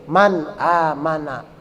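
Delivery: slow "man amana" with distinct n; clear izhar. Shown as a demonstration. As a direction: keep MAN separate from long AMANA. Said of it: "harus dibaca jelas".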